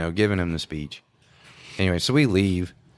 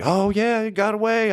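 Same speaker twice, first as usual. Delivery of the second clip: put-on much higher, sheepish kid-like voice; little Mike; 13 semitones higher than usual. Mike admitting the fire got away, high sheepish voice. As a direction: squeak it out like a caught kid.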